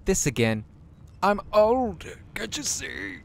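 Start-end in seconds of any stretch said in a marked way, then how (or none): 1.2-3.2 much higher, louder mock-insistent protest; indignant knight. Knight protesting the dwarf's jibe, hammed-up and insistent. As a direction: insist on your age with hammed-up pride.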